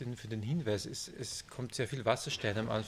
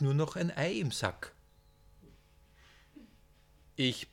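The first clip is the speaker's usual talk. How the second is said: lively read-aloud with character voices, louder than the chat; story reading; 4 dB louder than usual. Acted. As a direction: read the scene, voicing the two old men. Author reads novel excerpt aloud.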